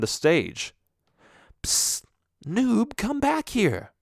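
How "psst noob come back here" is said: high whispered call from offstage; hushed teacher call. Retold or imitated. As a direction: call the kid back in a hushed voice. Teacher calls child back quietly.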